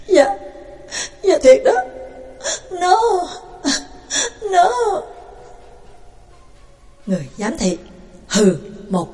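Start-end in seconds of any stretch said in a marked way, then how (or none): 0.1-5.0 high, breaking voice near tears; shy kid tearfully confirming to the warden; tearful stammer. Acted. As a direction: choke up, nodding through sobs. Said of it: "mếu máo".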